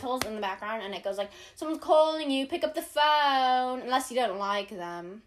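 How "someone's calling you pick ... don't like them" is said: imitated a singer. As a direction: recite a celebrity ringtone, slowing at the end. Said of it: "my ringtone is Harry Styles going".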